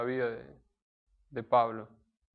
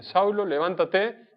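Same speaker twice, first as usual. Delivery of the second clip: slow, higher, firmer call of "Saulo, levántate"; divine command; 5 semitones higher, 3 dB louder, slower than usual. Acted. God calling Saulo to rise, slow and commanding. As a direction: call him up like a voice from heaven.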